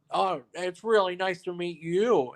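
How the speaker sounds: a hint of the actor being extra nice to someone else; French Stewart. Actor greets another guest to make a point, lightly mimicked and slow. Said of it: "He goes".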